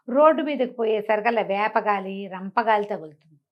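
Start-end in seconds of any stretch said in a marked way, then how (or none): none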